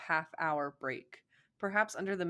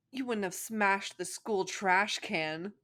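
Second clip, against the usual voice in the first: stiff accusation; 3 semitones higher, 3 dB louder, slower than usual. Acted. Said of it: "she bit out stiffly".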